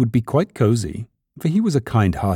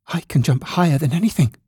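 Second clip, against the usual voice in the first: higher little rabbit voice; boastful little rabbit; 7 semitones higher than usual. A narrator's reading. Toy rabbit boasting to wild rabbit, high insistent voice.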